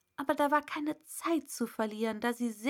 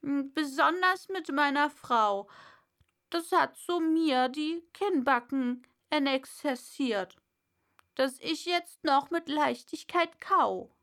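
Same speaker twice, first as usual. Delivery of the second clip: lightly voiced old father, a bit raised; 4 semitones higher, 4 dB louder than usual. Old father boasting to his son, lightly voiced.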